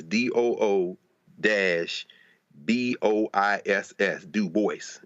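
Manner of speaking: careful letters, then "Du Bois" rhyming with "voice"; spelled-out pronunciation. Retold or imitated. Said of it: "The way I pronounce my name".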